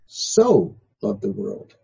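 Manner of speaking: slow, so drawn out; so held long and slow; stress on so. Shown as a demonstration. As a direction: lean on so slowly. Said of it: "that becomes emphatic".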